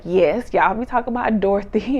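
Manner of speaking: imitating a loud, emphatic yes; loud quoted reply. Candace answering the group about moms, loud imitation. Retelling cast members' group banter.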